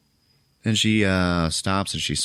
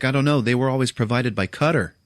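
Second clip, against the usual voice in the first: defensive; 5 semitones higher than usual. Retold or imitated. Doctor defends herself.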